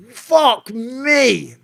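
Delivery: high, strained cry of fright; retold terror at gunpoint; scared gasp. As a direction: blurt it out as the gun comes up. Gun to head, reacting.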